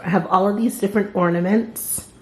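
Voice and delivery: words round a piece of gum; chewing gum. Real, not acted. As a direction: talk while chewing gum. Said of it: "excuse my gum wrapper".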